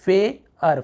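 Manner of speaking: फेयर split into "fay" and "ar"; फेयर in two separate sounds; broken-down pronunciation. Shown as a demonstration. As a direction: take फेयर apart, "fay... ar". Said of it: "आप देखेंगे ऐसे".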